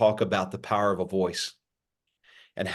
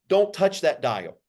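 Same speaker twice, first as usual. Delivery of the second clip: higher, slower radio-style catchphrase; old-school radio catchphrase; 5 semitones higher than usual. Retold or imitated. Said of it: "We used to say it like this".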